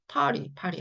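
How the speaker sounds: "파리" with the T flapped soft; native English pronunciation. Shown as a demonstration. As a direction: demonstrate native "party" as "파리", no hard T. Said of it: "원어민들이". (원어민처럼 티를 부드럽게 굴린 "파리")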